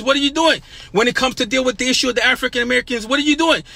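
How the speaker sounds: rising preacher's challenge, each question hammered harder; preaching at full force. Acted. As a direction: demand it of them like a pulpit call-out.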